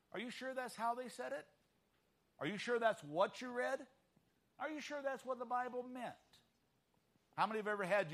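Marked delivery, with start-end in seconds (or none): 0.1-6.1 higher-pitched, needling questions; doubting question. Retold or imitated. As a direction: mildly cast doubt, question after question. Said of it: "somebody asked you".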